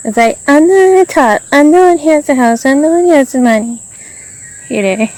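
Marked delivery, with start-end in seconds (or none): 0.5-3.8 mocking boast. Mimicking bossy housemates' boasting.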